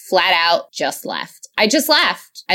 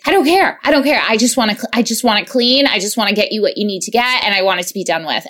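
mimicking husband; faster than usual. Husband's tired rant retold.

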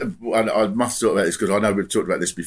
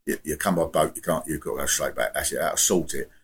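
lower, rambling caller impression; imitated radio caller; 4 semitones lower than usual. Imitating a caller complaining about the French, lower voice. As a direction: do the caller laying out his simple plan. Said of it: "I'm doing the act, but I think he did talk like this".

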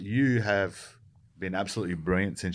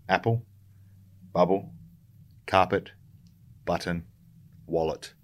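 slow word list; 2 semitones lower than usual. Shown as a demonstration. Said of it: "I just want you to remember these five things".

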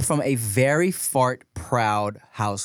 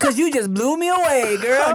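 cheesy pickup line; 12 semitones higher, 5 dB louder than usual. Pretend.

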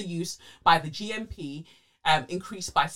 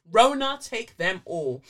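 mock curse; 5 semitones higher, 8 dB louder, slower than usual.

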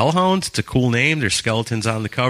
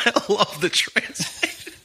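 laughing while talking; breaking up with laughter; 10 semitones higher, slower than usual. Real, not acted. Laughs at translation.

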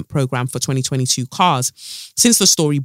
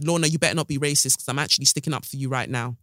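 hurried quiet aside; 3 semitones lower, 5 dB quieter, faster than usual. Real, not acted. Quick aside to Lorna.

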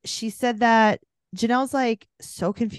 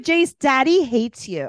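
mock menacing dad; 6 semitones higher, 6 dB louder, slower than usual. Retold threat from the dad.

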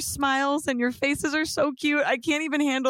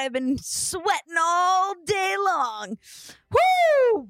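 hype shout; 5 semitones higher, slower than usual. Pretend.

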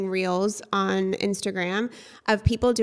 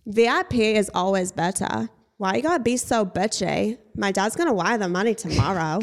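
Anna Delvey impression. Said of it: "my Anna Delvey impersonation".

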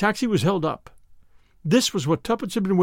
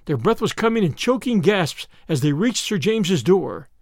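plain reading voice

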